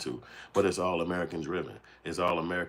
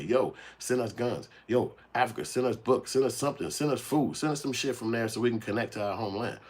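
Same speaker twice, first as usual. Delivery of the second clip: higher, pleading yell across the ocean; pleading call to Africa; 3 semitones higher than usual. Retold or imitated. Calling out to Africa, begging for help. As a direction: beg Africa to send help. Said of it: "We can't go to Africa and say".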